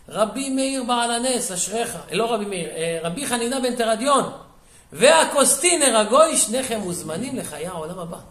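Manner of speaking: heavenly proclamation. Retold or imitated.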